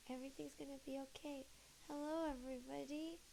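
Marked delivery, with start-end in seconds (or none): 0.1-1.5 soft, fast self-reassurance; soft quick murmur to herself; quiet reassurance. Real, not acted. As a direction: murmur it to calm yourself. Calming herself.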